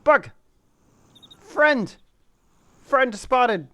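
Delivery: startled high yelp; scared horror game streamer. Real, not acted. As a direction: shriek out in a sudden fright. Jump-scare moment in horror game.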